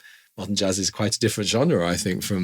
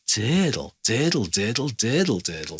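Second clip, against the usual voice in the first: "diddle" with long "DEE", the "dle" tapered away; lengthened, tapering. Shown as a demonstration. Teacher tells it as speech, "diddle" lengthened then tapered. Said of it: "lengthening emphasis on the dear, and then your diddle is, is kind of tapered away".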